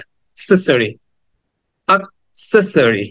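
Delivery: "অ্যাক্সেসরি" starting on a brief "uh" instead of "ae"; "অ্যাক্সেসরি" said as "uhk-SES-uh-ree"; short schwa opening. Shown as a demonstration. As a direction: model "অ্যাক্সেসরি" carefully with a short schwa first vowel. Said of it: "আ বলতে চার ভাগের এক ভাগ বলতে হবে".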